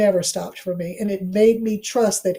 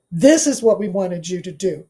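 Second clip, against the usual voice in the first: ancestors speaking; 3 semitones lower than usual. Retold or imitated. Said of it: "sitting right there saying".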